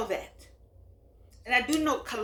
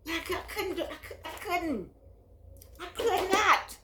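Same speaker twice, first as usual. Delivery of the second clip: laughing; 6 semitones higher than usual. Real, not acted. Laughing, rising emphatic denial.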